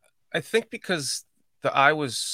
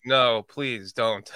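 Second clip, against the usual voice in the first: slow, lower mock plea; retold pleading; 5 semitones lower, much slower than usual. Host voices partner begging him to stop, slow mock plea. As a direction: draw out a weary imitated plea. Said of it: "She'll be like".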